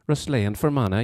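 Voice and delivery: lilting Fermanagh accent; playful demonstration of a Fermanagh accent. Shown as a demonstration. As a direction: put on a sing-song Fermanagh lilt. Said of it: "that was my Fermanagh accent".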